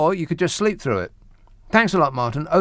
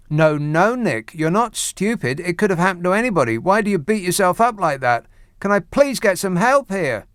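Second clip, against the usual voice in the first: higher-pitched mock reassurance; mock consoling; 4 semitones higher than usual. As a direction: console yourself with exaggerated concern, pitched up. Mock-pleading consolation of himself.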